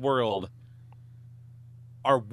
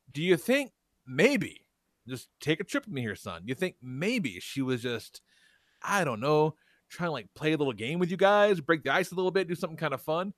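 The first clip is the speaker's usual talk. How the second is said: patient dad; 2 semitones higher than usual. Retold or imitated. Dad calmly reasoning with his upset son. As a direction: coax the kid calmly. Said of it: "And I said".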